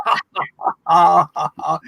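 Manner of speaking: light demonstrated giggle; put-on loosening-up laugh; giggle jiggle. Shown as a demonstration. Laughter yoga leader showing a giggle jiggle, put-on laugh. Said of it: "that's our giggle jiggle".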